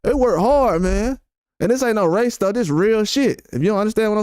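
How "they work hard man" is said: higher-pitched, mildly mocking praise; mock congratulating. Streamer mimicking people who praise day laborers, mock congratulating. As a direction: imitate someone patting workers on the back. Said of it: "rubbing y'all back and congratulating y'all".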